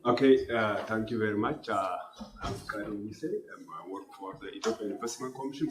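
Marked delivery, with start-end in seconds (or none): 2.4-5.7 speaking through a sore throat; sore, strained throat voice. Real, not acted. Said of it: "uh, sore throat".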